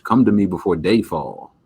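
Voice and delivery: a hint of a dramatic vampire. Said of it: "I start talking like a vampire".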